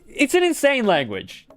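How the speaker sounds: high, exaggerated disbelief; exasperated exclamation. Streamer mocks the German language in a high exasperated voice. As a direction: throw it up high in mock despair. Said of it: "repeated exasperated remark".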